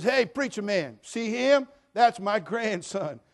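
loud, high call, stretched at the end; jailed grandfather. Retold or imitated. Grandfather showing preacher his grandson, loud boast. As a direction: mimic a grandfather boasting loudly. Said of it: "the grandfather said".

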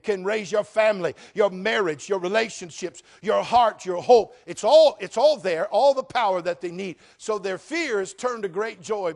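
loud, high, climbing pulpit cry; full-force revival preaching; fiery preaching. Acted. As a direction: preach it out to the whole congregation.

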